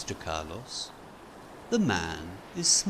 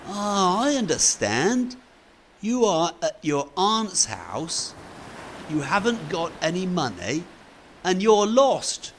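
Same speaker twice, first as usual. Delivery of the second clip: higher, louder hearty explaining; lightly voiced friendly Fred; 9 semitones higher, 5 dB louder than usual. Fred reassuring lost Carlos, higher hearty voice. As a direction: reassure a lost boy cheerfully.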